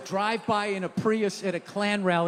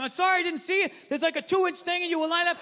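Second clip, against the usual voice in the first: higher, apologetic excuse; earnest mock self-defense, pitched up; retold pleading explanation; 5 semitones higher, faster than usual. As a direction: act out trying to explain over someone yelling. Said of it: "I was trying to explain".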